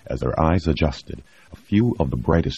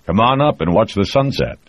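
calling out; 6 semitones higher, 4 dB louder than usual. Acted. Calling over shoulder to women.

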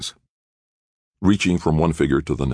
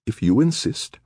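reluctant; 10 semitones higher than usual. Acted. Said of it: "very reluctantly".

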